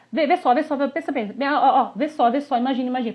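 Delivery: high, excited vê só run; mock visual person urging look; eager visual talker. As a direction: coax them to see it, eagerly. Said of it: "Opa, esse é visual".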